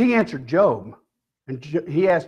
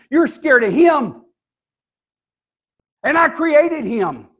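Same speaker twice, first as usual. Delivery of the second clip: slow, higher-pitched acted reproach; mild rebuke; 6 semitones higher, 3 dB louder, slower than usual. God confronts Job over Leviathan, mildly rebuking. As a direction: drive it home slowly, pitched up.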